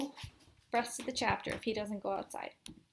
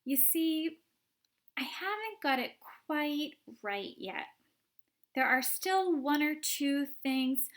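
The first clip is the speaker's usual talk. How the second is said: higher, pleading caution; lightly voiced Wonka; 5 semitones higher, 4 dB louder than usual. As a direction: ease her off gently but anxious.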